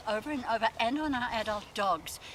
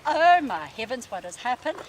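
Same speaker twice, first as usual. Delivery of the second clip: voicing the dog's shock; 8 dB louder than usual. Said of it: "as if to say".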